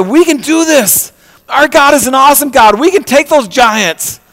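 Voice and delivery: high, ringing declaration of faith; preacher voicing Caleb's defiant confidence; bold Caleb and Joshua. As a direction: proclaim it like a brave believer. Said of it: "Caleb and Joshua, they said".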